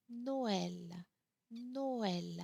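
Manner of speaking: Noël in two distinct vowels, "no-EL"; Noël with the ë sounded separately and stressed; emphasis on tréma letter. Shown as a demonstration. French teacher showing the tréma, Noël with separate stressed ë. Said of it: "put a little bit more emphasis on that letter".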